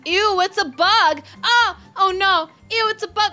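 put-on grossed-out girl. Spa girl spotting a bug on her toe, high squeal. Character voiced reacting to bug.

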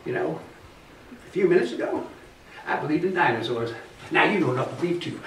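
high, loud, cackling crank convinced he's right; a wild-eyed backwoods know-it-all, laughing at his own cleverness; eccentric dinosaur believer. Acted. The crank convincing Merle dinosaurs are everywhere, high and loud with laughter.

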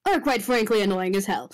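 pointed, measured complaint; deliberately aimed annoyance, with weighted pauses. Acted. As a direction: make the grievance land on a particular listener. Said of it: "he says that so pointedly".

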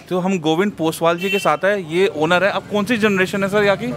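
muffled behind cloth mask; speaking through a face mask. Real, not acted. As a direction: mask covering mouth and nose. Seen 1: Patterned cloth mask covers speaker's mouth and nose throughout speech.

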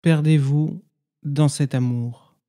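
measured poem recitation with long silences between phrases; meditative poem reading. Acted. Guide reads listeners a Sufi poem as practice, meditative recitation. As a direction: recite each line as an instruction, then leave silence.

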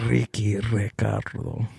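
slow mock-Spanish name roll; Spanish accent. Host joking about turning Spanish, Spanish accent. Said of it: "I'm Spanish".

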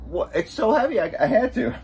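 high laughing squeal. Real, not acted. Laughing at spilling the drink on the tour bus seat.

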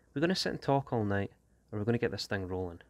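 impatient. A narrator's reading. Danny cuts off Tigo's explaining to get things rolling, impatient. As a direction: cut in, pushing to get started.

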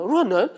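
若能 again high with a rising question tune; a short rising echo of 若能; incredulous question. Shown as a demonstration. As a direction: toss 若能 back, doubting. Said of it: "问号。".

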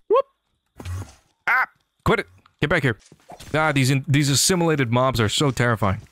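normal talking voice

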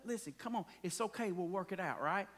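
quiet fatherly reassurance; reassuring parent. Retold or imitated. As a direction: hush a hurting child gently. Parent comforting fallen child.

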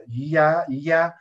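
"ya" said as a clear, scraped lya; clear rasping ll. Shown as a demonstration. Teacher clarifying the Huanca sound, clear ll. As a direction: draw out "ya" with a pressed ly. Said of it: "suena bastante clara".

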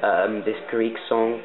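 practised, put-on British accent; Canadian trying on British English. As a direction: speak in an amateur British accent. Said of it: "I'm gonna be doing British".

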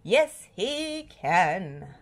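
proudly, drawn out; slow cheerful. Acted. Catchphrase answer.

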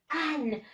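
"an" said as a clear model, with full vowel and final n; pronunciation demo. Shown as a demonstration. Teacher showing pupils the pronunciation, "an" said clearly. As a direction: pronounce "an" carefully for learners. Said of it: "The pronunciation is".

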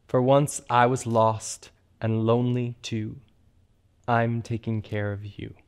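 slow, soft spoken lyric line by line; spoken lyric teaching. Shown as a demonstration. Host teaching the audience a Mister Rogers song, soft and slow. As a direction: speak each line gently so they can repeat it. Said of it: "repeat after me".

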